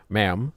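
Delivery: "Ma'am." with a final m and rising end; careful ma'am. Shown as a demonstration. Blaming a bad accent for the slip, careful "Ma'am.". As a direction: repeat "Ma'am." carefully, closing on m. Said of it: "That's just my bad accent".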